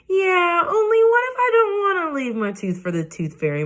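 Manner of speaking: high, teary, wobbling plea; shaky voice. Acted. Junie B begging mother to keep her tooth, teary. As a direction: plead on the edge of tears. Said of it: "My voice felt kinda shaky".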